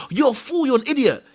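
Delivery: high-pitched self-scolding; retold exasperated telling-off; angry at himself. Shaming himself for his mistake, angry. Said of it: "Now I'm angry at, at, at, at myself".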